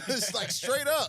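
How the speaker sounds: laughing through the words. Real, not acted. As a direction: say it while cracking up. Laughing while agreeing.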